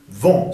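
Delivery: "vent" ending in a nasal vowel, no N. Shown as a demonstration. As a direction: let "vent" ring through the nose. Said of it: "sonido nasal".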